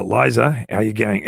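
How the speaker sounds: attempted Aussie accent; casual Aussie-accented greeting; Australian accent. Shown as a demonstration. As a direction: have a light go at an Australian accent. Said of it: "I just got an Australian".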